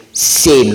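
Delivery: "same" with the weight on a long A; stressed, lengthened A in "same". Shown as a demonstration. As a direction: lean on the vowel of "same". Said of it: "l'accent tonique est là".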